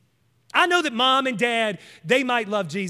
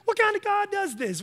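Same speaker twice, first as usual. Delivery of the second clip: acting out offended listeners in a rising, much higher pitch; mock offended; 5 semitones higher than usual. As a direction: imitate taken-aback objectors, climbing high in disbelief. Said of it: "just get all offended up".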